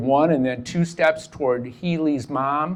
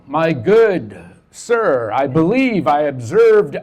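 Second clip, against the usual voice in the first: slow, lofty olde-English airs; mock Renaissance gentleman; 3 semitones higher, 6 dB louder, slower than usual. Juggler answering in Ren Faire character, slow and lofty. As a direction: ham up a courtly fair performer.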